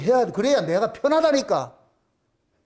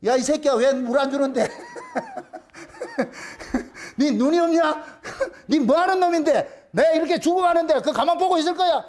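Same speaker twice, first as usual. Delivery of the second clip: hammed-up indignant complaint, a little raised; mock scolding yell; 3 semitones higher than usual. Thirsty tree yelling at the passer-by who waters it, mock outrage. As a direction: play-act a fed-up outburst, laughs breaking in. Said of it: "시들어가면서 소리를 치는 거예요".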